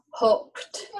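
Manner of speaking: hoped with a throat catch after the vowel; glottal stop. Shown as a demonstration. Teacher showing another glottal stop word, hoped cut short. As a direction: cut the air abruptly inside hoped. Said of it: "glottal stop".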